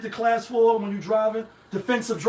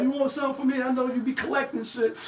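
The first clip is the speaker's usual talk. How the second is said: higher, lighter quoted friend's voice; 4 semitones higher than usual. Retold or imitated. Friend offering him something for his background, higher quoted voice. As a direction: imitate a friend offering a favor, pitched up. Retells friend's phone chat.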